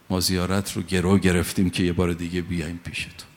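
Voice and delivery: heartfelt prayer. Acted. Preacher pleads with Imam Hussein for another visit, earnest.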